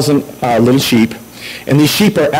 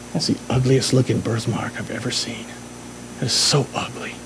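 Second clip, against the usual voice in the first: mocking kid voice; 4 semitones lower, 11 dB quieter than usual. Boy taunting her birthmark.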